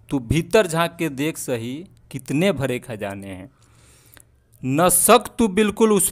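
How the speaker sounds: slow, measured verse with drawn-out line endings; Hindi poem recitation. Acted. Poet sharing a motivational verse with viewers, slow rhythmic recitation.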